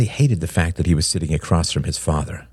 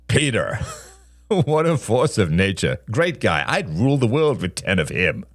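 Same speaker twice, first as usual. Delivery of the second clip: enthusiastic; 5 semitones higher than usual. Acted. Father gushing about Peter.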